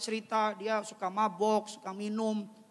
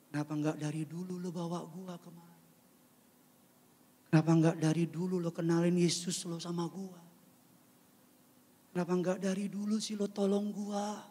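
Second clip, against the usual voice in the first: hurt plea; 3 semitones lower, 5 dB quieter than usual. Retold or imitated. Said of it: "Katanya bilang begini".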